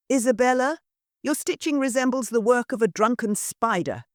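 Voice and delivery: high, disdainful matron voice scolding her daughter; a sneering society mother, pitched high; haughty mother. Acted.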